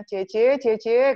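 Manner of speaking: acted-out child calling sister. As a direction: call for your sister's attention. Younger sibling calls older sister.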